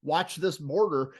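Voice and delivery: mildly acted plea to be heard; mock screaming alarm. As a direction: imitate an exasperated warning without shouting. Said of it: "you feel like you're screaming at the society".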